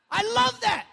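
loud, very high exclamation; delighted outburst. Real, not acted. Preacher enjoying a favourite story part, excited shout. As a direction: burst out with real relish.

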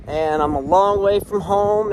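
proud emphatic line about being far from home; brighter emphatic repeat. Real, not acted. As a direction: declare it proudly this time. Repeating it with more energy.

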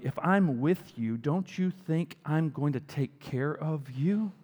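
slow, calm, tender Jesus; gentle reassurance. Retold or imitated. Jesus reassuring the worried believer, slow and gentle. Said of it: "he's going".

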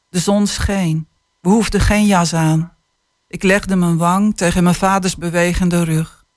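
put-on calm, measured reading of a children's book; unhurried storytelling voice; story reading. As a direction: read it like an author sharing a tender chapter. Author reads passage aloud.

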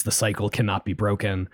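a hint of a low, ominous entity; lightly voiced eerie alien being; spooky Leviathan voice. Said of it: "in the spooky Leviathan voice".

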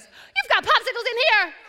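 put-on high thrilled child exclaiming; high excited little girl; excited kid. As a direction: squeal it like a delighted kid. Child discovers products.

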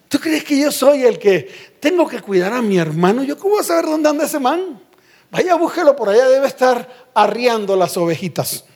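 lightly mocking, indignant comeback; haughty Cain. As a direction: brush the question off arrogantly. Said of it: "todo altivo y orgulloso".

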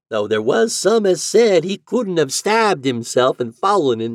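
high, loud drawling landlady. A narrator's reading. Landlady telling the lodger the house history. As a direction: gossip about the dead man.

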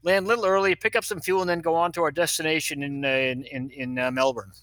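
captain's announcement. Retold or imitated. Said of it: "gets on the public address and says".

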